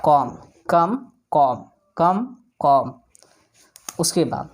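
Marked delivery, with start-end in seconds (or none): 0.0-2.9 कॉम and कम alternated, b never sounded; silent b drill. Shown as a demonstration. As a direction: contrast कॉम with कम, no b. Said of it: "इसको बोलेंगे कॉम".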